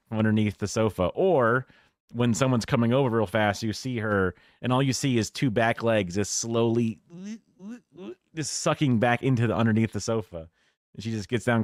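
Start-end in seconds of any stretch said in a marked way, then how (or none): none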